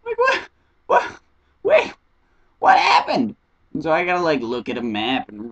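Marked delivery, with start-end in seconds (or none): 0.0-3.4 very high, squeaky shock; hammed-up high-pitched incredulity; baffled disbelief. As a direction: squeal it in mock astonishment. Acts out her shock at refusal.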